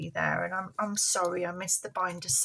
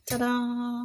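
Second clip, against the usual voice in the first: puppet voice; 3 dB quieter than usual. Pretend. Puppet envelope reveal.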